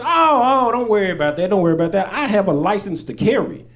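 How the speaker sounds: high, laughing, nervous reassurance; eager reassurance. Retold or imitated. Comedian reassuring police about his gun, high and eager.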